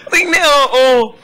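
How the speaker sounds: laughing. Real, not acted. Laughing while protesting.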